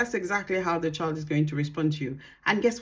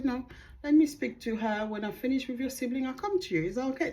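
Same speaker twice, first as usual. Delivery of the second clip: put-on softer, higher voice to a child; calm parent; 6 semitones higher, 5 dB quieter, faster than usual. Shown as a demonstration. Mother to a child waiting for her turn, calm and gentle. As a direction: gently hold one child off. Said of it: "Speak to them in a tone of voice".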